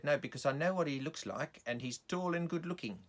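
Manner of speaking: lightly voiced South African woman; lady explaining herself in a South African accent. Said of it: "a woman with a South African accent".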